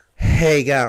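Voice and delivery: put-on Australian accent. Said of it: "nice and nasally, and you just breathe it out".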